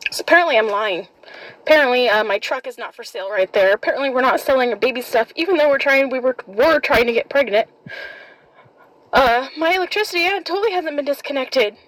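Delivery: bitter mocking sarcasm; sarcastic. Real, not acted. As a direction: spit out the accusations sarcastically. Sarcastic rant about accusations.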